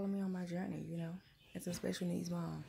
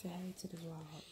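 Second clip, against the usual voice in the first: soft whisper, much quieter; whispered coaxing; 10 dB quieter than usual. Real, not acted. Mother prompting daughter to greet viewers, whispered.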